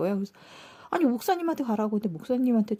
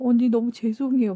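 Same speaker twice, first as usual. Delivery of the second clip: loud, tearful mock sobbing through tears; 5 dB louder than usual. Retelling what a girl said while crying: imitating someone crying. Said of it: "막 울면서".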